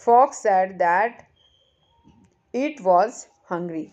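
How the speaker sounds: "fox said that" drawn out very slowly and loud, each word spaced; teacher models "fox said that" slowly and loudly for pupils; slow, deliberate model reading. Shown as a demonstration. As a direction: read "fox said that" word by word for the class to copy. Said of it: "अब ये इसने इसको इस तरह से कहा है कि".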